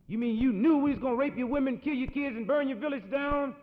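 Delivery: mock-shocked cowboy; incredulous shout. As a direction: bark the question in disbelief.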